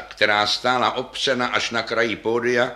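plain reading voice

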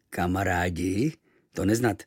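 níž a pomalu, nejistě; zvídavě. Acted. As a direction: zeptej se nechápavě. Domorodec opakuje slovo. (domorodec nechápavě opakuje cizí slovo)

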